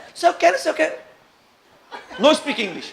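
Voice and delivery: put-on high, squawky old woman voice; mock old lady. Old lady butting in at the stop, mock old voice. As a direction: butt in like a nosy old lady. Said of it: "a velha".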